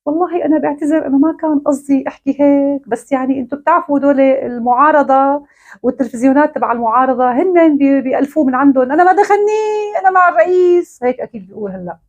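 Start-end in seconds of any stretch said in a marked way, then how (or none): 0.1-11.0 higher, pleading put-on voice of a frightened actor backpedaling; mock groveling apology. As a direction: grovel to the regime, pitch climbing as you insist. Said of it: "بدك ترجع تقول".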